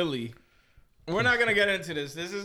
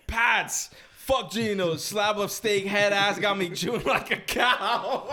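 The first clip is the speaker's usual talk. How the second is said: shouting capitalized words; 3 semitones higher, slower than usual. Retold or imitated. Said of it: "read it in all caps".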